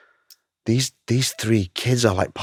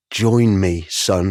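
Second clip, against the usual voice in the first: lightly voiced dark lord, a touch louder; a hint of the villain beckoning; Darth Vader; 4 dB louder, much slower than usual. Father figure tempting his son, lightly voiced. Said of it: "as Darth Vader says".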